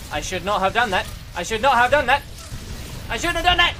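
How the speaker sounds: from plain to a high, loud wail; building regret. Real, not acted. Gamer regretting a move, building to a loud wail. Same line repeated, louder each time.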